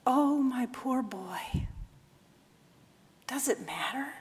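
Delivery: mother lovingly forgiving her son; tender mother. Acted. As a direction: gently console him.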